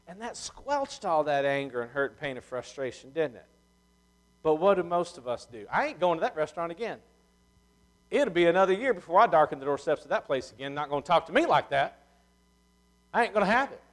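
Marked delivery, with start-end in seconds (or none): 5.7-13.8 mildly hammed-up huffy customer; indignant refusal. Offended customer swearing off the restaurant, mock indignant. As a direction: act out a stubborn, offended refusal.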